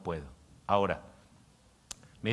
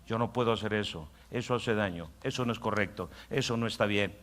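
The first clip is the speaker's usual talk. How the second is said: softer, calm refusing voice; wise inner voice; 3 semitones lower, 6 dB quieter than usual. Acted. Pastor voicing the wise inner voice, soft calm refusal. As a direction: refuse it quietly and wisely. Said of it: "esa voz interior dice".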